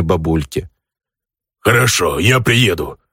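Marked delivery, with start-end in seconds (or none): 1.6-3.0 growling orc. Acted. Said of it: "рыкнул орк".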